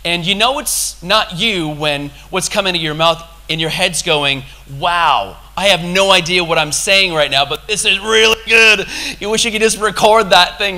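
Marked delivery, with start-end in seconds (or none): 4.8-10.8 amazed inner voice. Retold or imitated. Acts his amazed inner voice.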